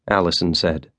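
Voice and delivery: plain reading voice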